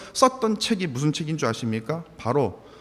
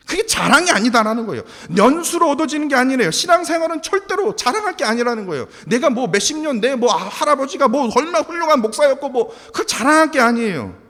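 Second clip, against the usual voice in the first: raised, insistent pulpit voice; fervent preaching; 8 semitones higher, 3 dB louder than usual. Real, not acted. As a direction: press the warning on the congregation with force. (힘주어 경고하는 설교조)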